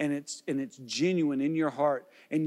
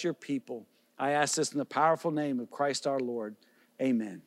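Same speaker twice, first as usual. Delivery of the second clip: closing prayer. Real, not acted. Pastor prays for the congregation, earnest and steady. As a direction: pray over the church, steady and sincere.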